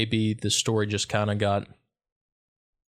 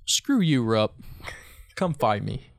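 mock challenge; slower than usual. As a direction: call him out, half in jest. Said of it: "Just kidding".

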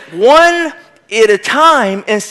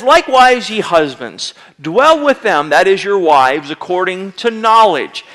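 scripture reading. Acted. Reads scripture verse.

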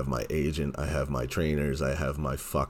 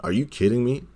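incredulous; 8 semitones higher, 4 dB louder than usual. Retold or imitated. Outraged mock of the sender.

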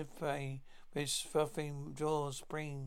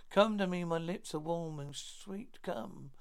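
seductive temptress. Acted. Temptress lures the brother.

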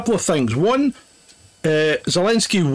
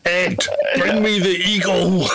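laughing mock order. Voicing Putin, laughing.

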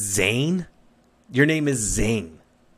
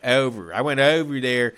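put-on Philly accent. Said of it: "That's how they talk in Philly".

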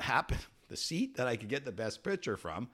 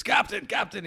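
higher calling shout; yelling up; 11 semitones higher, 4 dB louder than usual. Retold or imitated. Lookout calling down to the captain, high yell. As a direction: call down from the crow's nest. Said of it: "he yells down".

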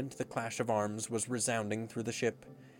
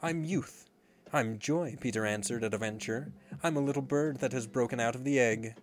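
joyful boast. Acted. Peter's boastful answer.

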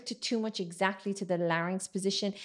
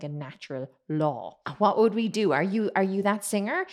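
usual speaking voice

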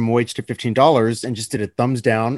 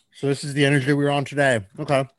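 talking around gummy bears; chewing while talking; mouth full. Real, not acted. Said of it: "gummy bears in my mouth".

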